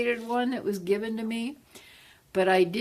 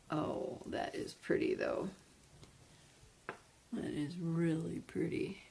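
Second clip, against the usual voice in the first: hushed, breathless admiration; whispering; 11 dB quieter than usual. Real, not acted. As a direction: whisper it in awe.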